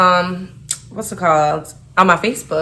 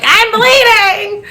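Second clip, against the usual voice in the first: laughing quote; 14 semitones higher, 3 dB louder, much slower than usual. Retold or imitated. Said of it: "I'm like".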